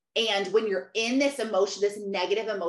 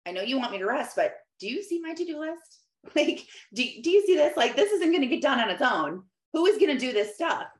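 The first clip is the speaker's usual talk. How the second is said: exasperated plea to God; 4 semitones higher, faster than usual. Retold or imitated. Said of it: "it's hard to rest when you're like".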